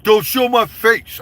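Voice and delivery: loud, high, drawn-out mimicked protest; mock protest. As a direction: imitate someone yelling in protest, stretching it out. Retelling Rocker's protest on camera.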